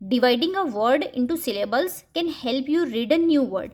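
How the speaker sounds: very slow, word by word; slow, clear dictation pace; slow example read. Shown as a demonstration. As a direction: read it out slowly for children. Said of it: "ये भी बच्चों को grade one में पढ़ाया जाता है".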